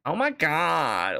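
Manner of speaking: slow, drawn-out attempt at a stereotyped gay voice; badly faked gay affectation, stretched out; half-hearted gay voice. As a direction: try the affected gay voice and fall short. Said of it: "can't really do the gay voice".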